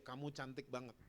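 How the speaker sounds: very soft, loving praise; quiet fatherly affection; tender father. Retold or imitated. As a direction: say it gently, just for the child. Father lifting child, tenderly praising her.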